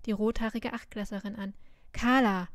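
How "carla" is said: a louder call across the room; calling out a name. A narrator's reading. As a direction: summon her with one sharp call. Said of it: "rief sie die Feuerlocke zu sich".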